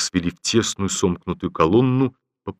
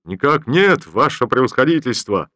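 soldier shouts even louder; 4 semitones higher, 4 dB louder than usual. Acted. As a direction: bellow it out for the general. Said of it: "крикнул он ещё громче".

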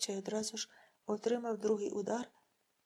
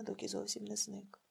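ordinary delivery

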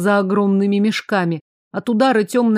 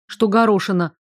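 usual speaking voice

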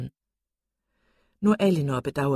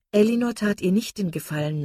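ordinary delivery

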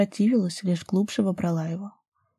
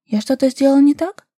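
startled, higher and louder question; alarmed; 7 semitones higher, 6 dB louder than usual. A narrator's reading. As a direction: jump up in sudden worry. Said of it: "сполошилась Даша".

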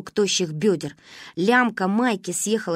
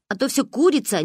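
mocking imitation; 6 semitones higher than usual. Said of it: "передразнивала она меня".

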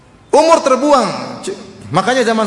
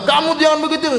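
mild mock scolding; 7 semitones higher than usual. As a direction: imitate someone scolding over the phone. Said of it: "dia bentak-bentak".

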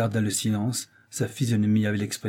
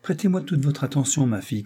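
a pompous father, a touch higher, opening a speech; lightly voiced father holding forth to his daughter; oratorical father; 4 semitones higher than usual. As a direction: clear your throat and begin grandly. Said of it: "méditait un effet oratoire".

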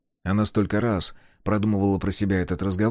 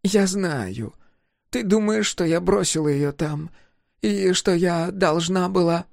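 higher, uneasy, guilty voice; avoiding her eyes while admitting it; older woman confessing; 10 semitones higher than usual. A narrator's reading. Niema pressing her apology.

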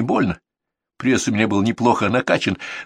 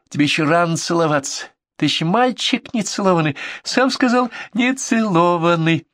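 mocking; 6 semitones higher than usual. A narrator's reading. Girl mocking the unkissed boy, high. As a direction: rub it in, sing-song.

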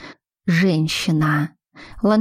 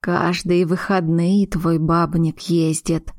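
sly; slower than usual. Acted. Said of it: "лукаво заметила".

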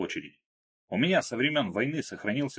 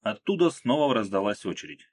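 usual speaking voice

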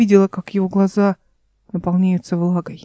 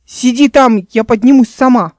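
louder, urgent call upward; 3 semitones higher, 5 dB louder than usual. Acted. Эл shouts up to Дмитрий to stay put. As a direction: call up the ledge, commanding. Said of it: "выкрикнула она".

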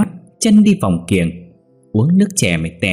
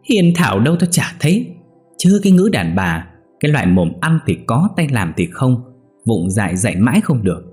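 scornful; 3 semitones higher than usual. Acted. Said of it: "khinh khỉnh đáp".

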